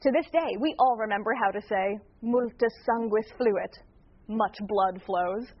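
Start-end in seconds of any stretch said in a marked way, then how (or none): 2.2-5.5 slow, deliberate, relishing each word; slow recitation. Shown as a demonstration. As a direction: savour every word slowly. Reciting a gruesome Latin phrase.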